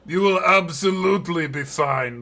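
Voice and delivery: grinning, upbeat promise; cheerful reassurance. Acted. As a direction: sound confident and cheery. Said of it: "with a grin that says".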